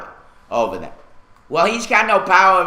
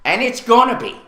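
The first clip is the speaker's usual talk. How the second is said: raised-pitch, emphatic ranting; fed-up anger; 3 semitones higher than usual. Real, not acted. Resident scolding the city over its neglect, fed up. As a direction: scold them, truly exasperated. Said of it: "I'm sick and tired of the bullshit".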